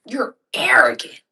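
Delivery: low, slow whisper at the bird. Real, not acted. Whispering to the grumpy parakeet.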